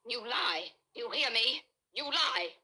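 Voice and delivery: wife losing control, accusing the detective of lying; accusing outburst. Acted. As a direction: build from a sharp accusation into a near scream.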